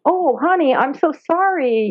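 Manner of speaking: mildly acted pity for an animal; retold sympathy. Woman consoling a frightened dolphin, high sympathetic apology.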